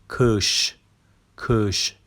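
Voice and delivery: کش with a dotless-ı vowel and a final sh; careful pronunciation. Shown as a demonstration. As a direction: show the vowel in کش clearly.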